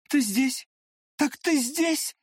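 high, rising, stunned; shocked cry. A narrator's reading. Liza finds him with the prince, shocked cry. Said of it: "вскричала она".

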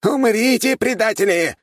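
high battle shout; a lean fighter's furious high cry. A narrator's reading. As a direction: scream it at the traitors. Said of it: "прокричал загорелый худой мужчина".

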